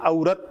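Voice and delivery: "औरत" opening with an a-u glide; mispronunciation demo. Shown as a demonstration. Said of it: "ये औरत की तरह उच्चारण नहीं होता". ("औरत" में अ-उ वाला उच्चारण)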